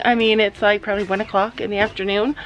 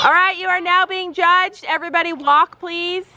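horse show judge; 5 semitones higher than usual. Pretend. Mom plays horse show judge.

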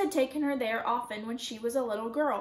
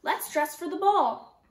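higher, louder, drawn-out doll talk; play-acting doll voice; 5 semitones higher, 6 dB louder, slower than usual. A narrator's reading. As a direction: lightly play a grand doll, slowly. Girl voices paper doll in play.

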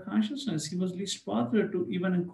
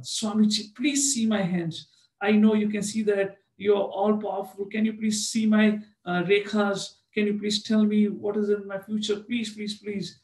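higher wheedling please, please; pestering plea; 4 semitones higher, 3 dB louder than usual. Retold or imitated. Man pesters Prabhupada to read his hand, wheedling. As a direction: nag the swami to read your palm.

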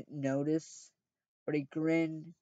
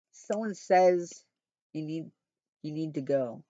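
reading the typo literally. Shown as a demonstration. Reader stumbling over the book's typo, puzzled. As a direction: read the broken sentence exactly as printed. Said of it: "My God, typo".

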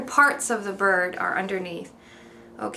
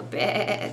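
lamb bleat imitation; 2 semitones lower, 4 dB quieter than usual. Shown as a demonstration. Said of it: "the animal".

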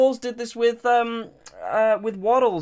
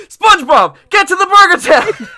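loud, higher bellowed order; louder, higher cartoon yell; mock shout; 9 semitones higher, 13 dB louder than usual. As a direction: yell the command across the room. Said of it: "it's just like".

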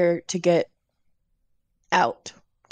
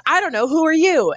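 a touch higher, flustered; mild flustered reply; 9 semitones higher, 4 dB louder than usual. Acted. Atticus answers the armed woman, lightly flustered. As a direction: toss the question back, caught off guard. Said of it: "Atticus goes".

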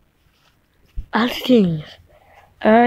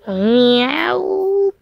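cat meow; 6 semitones higher than usual. Acted. Cat tries to fight the fire.

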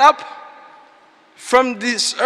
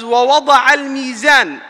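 fast, loud chanted verse; loud recitation; 3 dB louder, much faster than usual. Acted. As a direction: proclaim the verse with force. Quran verse recited in sermon.

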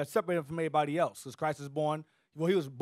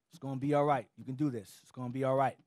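comforting angel; 5 semitones lower than usual. Retold or imitated. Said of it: "Angel to come down and comfort him".

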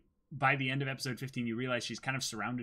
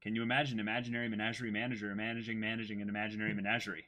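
fast tongue twister; 3 semitones lower, 5 dB quieter, faster than usual. Shown as a demonstration. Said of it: "Ma-, managing?".

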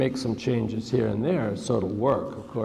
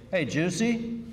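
mild narrated yell; 7 semitones higher than usual. A narrator's reading. Booker calls his bodyguard from the jacuzzi, mild narrated yell. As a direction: call for the bodyguard, understated. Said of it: "He yelled for his bodyguard".

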